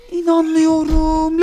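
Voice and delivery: slow, drawn-out disbelief; mock disbelief. Mother amazed at the toy theft, slow disbelief. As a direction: stretch it out in amazement. Reacts to Avatar taking toy.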